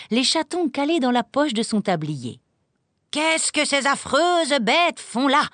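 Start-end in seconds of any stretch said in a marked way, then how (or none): 3.1-5.5 high, slow, louder horrified cry; horrified yell. A narrator's reading. Governess horrified by the kittens, high slow yell. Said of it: "hurla mademoiselle Rottenmeier".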